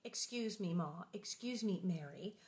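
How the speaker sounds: soft, polite little voice; softly polite girl. Acted. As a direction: apologise meekly and quietly. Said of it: "Laura said politely".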